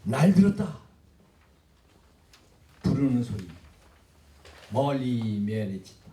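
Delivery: reading the poem lines aloud; a poetry recital, measured and spaced. Shown as a demonstration. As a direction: recite the verse with pauses. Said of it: "그 밑에 두 줄을 보면은".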